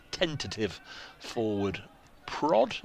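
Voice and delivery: TENTATIVE said slowly, syllable by syllable; careful slow pronunciation. Real, not acted. Commentator picking through a word he struggles to say, slow and careful "tentative". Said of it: "unless I say it as slowly as that".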